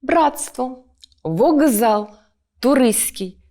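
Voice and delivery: careful assimilated sounds, "Братство" as bratstvo with merged consonants, "вокзал" as vogzal, "туристський" as turys'kyi; model pronunciation. Shown as a demonstration. Teacher models words said by the norm, "вокзал" as vogzal, "туристський" with the cluster simplified. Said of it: "які вимовляються з певною нормою".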